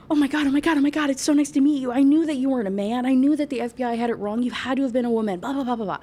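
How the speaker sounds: high, fast, gushing imitation of a starstruck admirer; hammed-up fanboy groveling; groveling, worshiping. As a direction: gush breathlessly in mock worship, tailing into blahs. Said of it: "Like, groveling about this".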